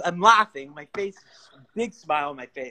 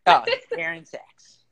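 very high, louder mock yell; imitated yell; 6 dB louder than usual. Repeating a friend's shout for the co-host, high mimicked yell. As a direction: call out "Aaron Sakes" high, like his friend. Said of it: "That's the way he yells that".

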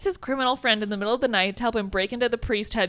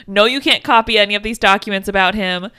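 louder mock-official refusal; blanket refusal; 5 dB louder than usual. Imitating officials guarding documents about him, blanket refusal. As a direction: rattle off another no, imitating officials.

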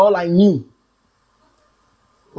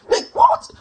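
incredulous what. Retold or imitated. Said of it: "I said".

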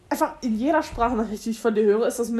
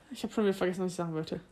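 trailing off; 6 semitones lower, 9 dB quieter, faster than usual. Real, not acted. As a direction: voice fading to nothing. Forgets what she wanted to say.

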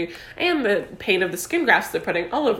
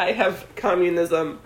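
slow, lightly put-on Russian accent; half-hearted mock Russian accent; bad Russian accent; 3 semitones lower, slower than usual. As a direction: drag the words out in a clumsy Russian accent. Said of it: "I don't know how to do a Russian accent".

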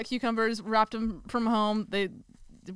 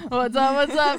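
excited greeting; 5 semitones higher, 7 dB louder than usual. Real, not acted. Greeting the ghost voice back.

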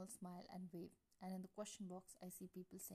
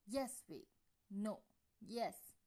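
loud back-and-forth bickering; mock argument, shouted; playful shouting; 3 semitones higher, 9 dB louder, much slower than usual. A narrator's reading. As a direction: shout each word like a squabbling kid. Playful yes-no shouting match.

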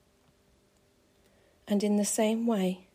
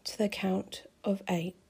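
soft spa whisper; 4 dB quieter than usual. Acted. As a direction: whisper it as they drift off.

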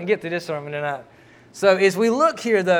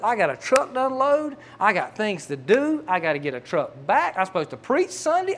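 frustrated fussing; 3 semitones higher than usual. Retold or imitated. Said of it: "I'm just fussing".

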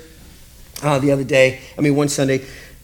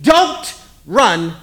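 mock scolding; 2 semitones higher, slower than usual. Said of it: "You say that phrase".

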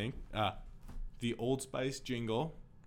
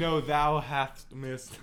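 put-on slow old-English ham; 3 semitones higher, 5 dB louder, much slower than usual. Shakespeare bit continues.

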